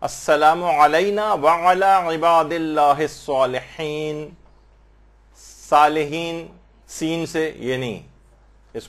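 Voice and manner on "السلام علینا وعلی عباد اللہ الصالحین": slow recitation with س in place of ص in الصالحین; mispronunciation demo. Shown as a demonstration. Teacher imitating how people usually mispronounce it. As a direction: read it the common wrong way, slowly. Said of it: "جس طریقے سے اس کو پروناؤنس کرتے ہیں".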